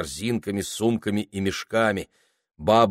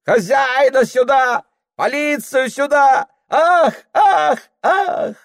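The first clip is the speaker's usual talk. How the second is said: very high, loud howling cries; two peasant women howling along; women wailing; 7 dB louder, slower than usual. Acted. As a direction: wail for the master and the police. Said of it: "ревут и бабы".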